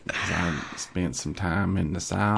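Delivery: slow Southern redneck drawl; redneck accent. Acted. Competing at accents, redneck drawl. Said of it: "He does the redneck".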